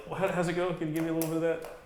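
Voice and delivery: mock Jamaican patter; Jamaican accent. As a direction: put on a lilting Jamaican accent. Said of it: "when you get around, like, Jamaicans".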